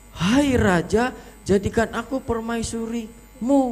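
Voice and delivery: high, slow, fierce mock demand; imitated angry delivery. Judge imitates contestant's royal plea, mock angry. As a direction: mimic a too-fierce plea to the king. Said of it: "Lah kok malah marah? Jangan galak".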